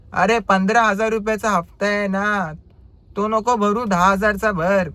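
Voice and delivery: imitating a customer yelling into his phone; loud phone talk. Driver mimics passenger shouting on the phone, loud. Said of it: "एवढ्या जोरजोराने बोलत होते".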